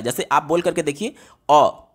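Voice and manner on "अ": अ said short, one beat; short vowel. Shown as a demonstration. Teacher has pupils time the vowel, short अ. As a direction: say अ briefly, as one unit of time. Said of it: "जितना समय लगा".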